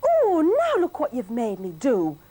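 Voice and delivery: scolding wife. Acted. Wife Millie scolding her husband, high and cross. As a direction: give silly Billy a proper telling-off.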